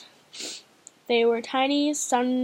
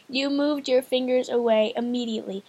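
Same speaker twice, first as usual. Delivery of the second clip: giggly whisper. Real, not acted. Rereading line after giggling at stumble.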